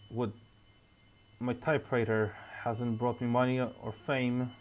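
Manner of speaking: a hint of a drunk, gruff man muttering to himself; lightly voiced Walter. Player voicing Walter's late-night thoughts, lightly gruff.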